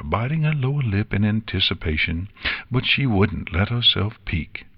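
ordinary delivery, nothing marked

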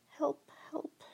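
very high, loud squeaky cry. A narrator's reading. Trapped creature calling for help, high and squeaky. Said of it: "my voice has gone all squeaky".

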